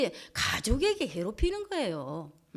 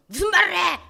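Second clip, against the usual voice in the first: higher, louder startled reply; frightened wife snaps back at her husband, loud; alarmed retort; 7 semitones higher, 9 dB louder than usual. Retold or imitated. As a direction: cry out in alarm at him. Woman answers husband holding knife.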